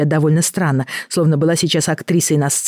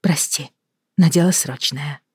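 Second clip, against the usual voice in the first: serious. Acted. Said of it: "серьёзно произнесла Елена".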